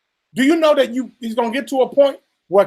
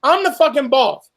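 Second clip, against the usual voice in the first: indignant, raised and higher; mock furious Congress; 3 semitones higher than usual. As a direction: play the offended boss. Congress voiced as furious boss.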